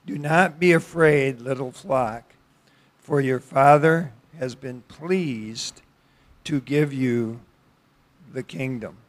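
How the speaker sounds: measured verse reading with pauses between phrases; scripture reading. Acted. Preacher reads the day's text to the congregation, scripture reading. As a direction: read the verse out deliberately, phrase by phrase.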